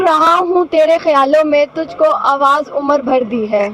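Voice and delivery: reciting a couplet. Shown as a demonstration. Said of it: "कोई शेर सुना दे अच्छा सा". (शेर पढ़ते हुए)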